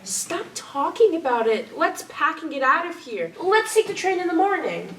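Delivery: urgent. Acted. Pleading to flee together.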